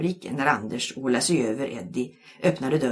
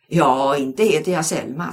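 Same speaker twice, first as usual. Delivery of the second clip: friendly; 7 dB louder than usual. A narrator's reading. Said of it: "sa läraren vänligt".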